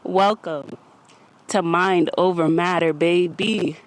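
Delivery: slightly winded greeting; out of breath. Real, not acted. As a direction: talk like you just ran. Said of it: "I'm a little out of breath".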